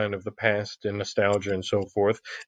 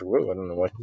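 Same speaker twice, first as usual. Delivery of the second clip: startled; 4 semitones lower, 4 dB quieter, faster than usual. Real, not acted. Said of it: "computers went out of control".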